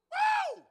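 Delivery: high, loud whooping cry; sudden shouted woo of praise; joyful whoop. Real, not acted. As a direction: let out an ecstatic whoop. Preacher exclaims mid-sermon.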